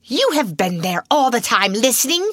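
cold, accusing schoolmistress; stern headmistress. A narrator's reading. Headmistress accusing the maid, cold and stern. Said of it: "said Miss Minchin".

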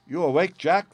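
high, loud, startled greeting; anxious wife caught unawares; nervous cry. A narrator's reading. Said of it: "she cried with a nervous laugh".

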